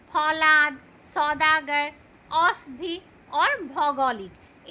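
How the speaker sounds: each word spoken slowly and distinctly, with a full open "औ" vowel; a teacher reading a word list aloud, pausing between words; clear au sound. Shown as a demonstration. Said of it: "बोलते वक्त अ का उच्चारण होता है".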